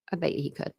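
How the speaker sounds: a hushed repeat of the line; soft echo. Shown as a demonstration. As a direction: let it fall away like an afterthought to yourself.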